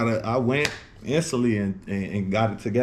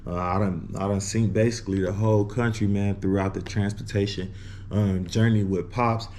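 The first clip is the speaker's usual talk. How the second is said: slight lisp from a retainer. Real, not acted. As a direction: talk with a retainer in. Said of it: "If I sound a little lispy".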